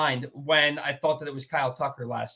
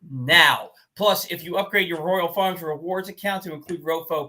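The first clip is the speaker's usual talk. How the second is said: upbeat sponsor read, slowing on the final slogan. Acted. Host reads a sponsor ad.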